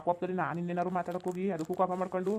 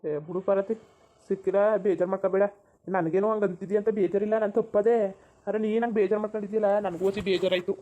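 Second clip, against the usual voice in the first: loud consoling; 6 dB louder than usual. Acted. Husband consoles upset wife.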